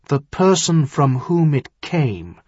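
slow, deliberate echo; repeated slowly. Acted. Son-in-law echoes the earl's phrase while thinking, slowly. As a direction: repeat it slowly, weighing each word. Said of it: "Tyrion repeated slowly".

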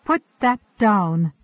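sharp, loud alarmed command; shocked. A narrator's reading. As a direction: stop her in shocked alarm.

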